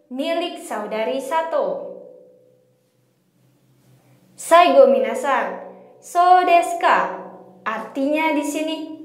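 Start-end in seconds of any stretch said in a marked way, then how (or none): 4.3-7.2 "so desu ka" with the end falling, not raised like a question. Shown as a demonstration. Teacher shows students the reply, pitch falling at the end. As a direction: let "ka" drop at the end. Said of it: "intonasi pada bagian akhir tidak dinaikkan".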